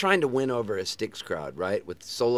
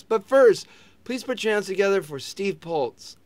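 a touch of a higher announcer voice; mock MC intro; 11 semitones higher, 7 dB louder than usual. Singer introducing the opening act, lightly mocked announcer voice. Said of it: "And he goes".

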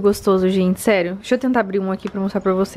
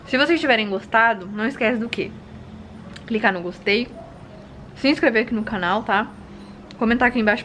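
talking round a bite of food; mouth full; 3 dB quieter than usual. Real, not acted. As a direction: speak with a mouthful. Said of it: "perdão que tá falando de boca cheia".

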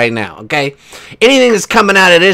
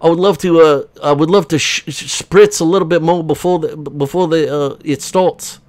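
a fussy, faltering plea; lightly put-on voice, stumbling over a polite request; lightly voiced H; 2 semitones higher than usual. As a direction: plead fussily in a mock voice. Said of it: "H is back here farting around".

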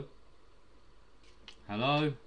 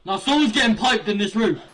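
chipmunk voice; 6 semitones higher, 10 dB louder than usual. Real, not acted. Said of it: "shall I make my voice even higher".

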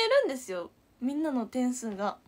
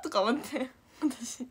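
ordinary talk

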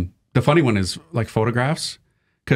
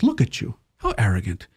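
imitated indignant woman. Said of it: "a white lady, and she goes".

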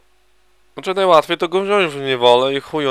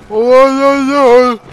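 drawn-out, much higher and louder "ojojoj" wail; exaggerated lament; 13 semitones higher, 8 dB louder, much slower than usual. Real, not acted. Gamer wailing as his troops get hit, slow high lament. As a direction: wail it slowly, like it's a disaster. Losing badly in battle.

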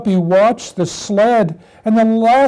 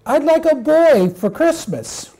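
high, eager little puppy voice; 7 semitones higher than usual. Acted. Puppy asks his mother for a Christmas boy, little puppy voice. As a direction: make the wish as a small puppy.

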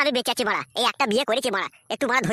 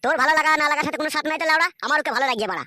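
angry dismissal; 2 semitones higher, 3 dB louder than usual. Acted. Husband dismissing wife angrily.

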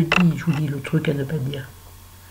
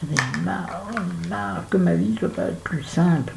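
weary and fed up; 4 dB quieter than usual. Real, not acted. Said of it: "je suis agacée".

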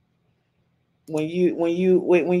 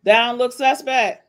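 mocking disbelief; 6 semitones higher, 5 dB louder than usual. Real, not acted. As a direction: rub in how suspect it looks. Ridiculing clip, repeated louder.

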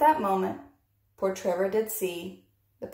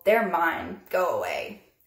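grumble; 2 semitones lower than usual. Acted. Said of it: "Pig would just grumble".

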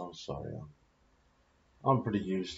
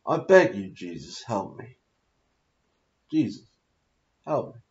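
real pleading; 5 dB louder than usual. Real, not acted. Man begging Jesus for help, pleading. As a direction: beg for help in short, broken-up appeals.

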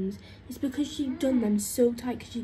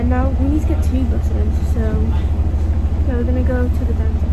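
muffled behind mask; speaking into mask cloth; through a face mask; 14 dB louder than usual. Real, not acted. Seen 0: Pink surgical mask covers mouth and nose throughout; none in references.

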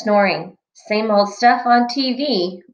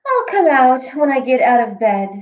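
sleepy yawning voice; 4 semitones higher than usual. Acted. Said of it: "Sleeping Beauty yawned and said".

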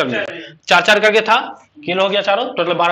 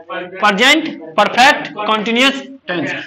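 slow teaching demo. Shown as a demonstration. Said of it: "चौथा क्या बोलेगा?".

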